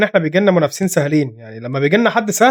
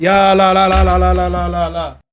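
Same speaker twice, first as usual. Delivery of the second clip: groaning no no; slower than usual. Real, not acted. Watching a chance being missed.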